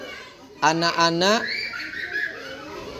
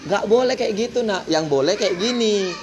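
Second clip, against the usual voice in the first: gentle scolding; 4 semitones higher than usual. Shown as a demonstration. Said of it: "Marah sesuai dengan dia".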